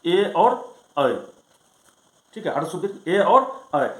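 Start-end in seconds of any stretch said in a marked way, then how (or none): 0.1-1.1 ए and ऐ stretched out very slowly for the class; drawn-out vowels. Shown as a demonstration. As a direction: hold each vowel long so students can hear it. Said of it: "ए से क्या ले लेंगे हम?".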